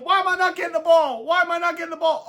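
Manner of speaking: hammed-up high, loud, fast complaint; mock yelling. Star receiver mocked yelling at his coach for the ball, hammed-up loud whine. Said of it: "he started yelling at Mike McDaniel".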